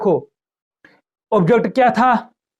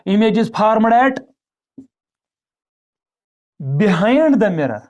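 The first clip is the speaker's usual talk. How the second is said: very slow, each word spaced out for notes; slow dictation; much slower than usual. Shown as a demonstration. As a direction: read it out slowly so students can write it down. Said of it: "answer हम लिखेंगे". (धीमे-धीमे लिखवाते हुए)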